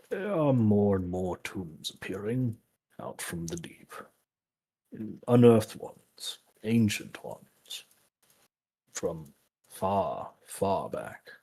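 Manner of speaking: slow, measured, soft revelation; lightly voiced character, pausing for weight; grave in-character telling. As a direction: share ancient lore quietly, with long pauses. Player character reveals ancient tombs.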